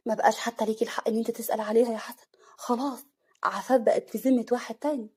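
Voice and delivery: calm, level delivery at normal volume. Acted. Mahmoud telling Hassan that Afaf has married, calm. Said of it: "محمود بهدوء".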